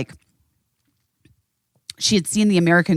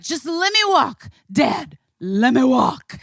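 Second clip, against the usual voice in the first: put-on higher-pitched drunken child pleading; drunkest friend; 6 semitones higher, slower than usual. Mother acting out her child fending off dad, drunkenly insistent. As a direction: imitate a loopy child pushing help away. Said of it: "like, your drunkest friend".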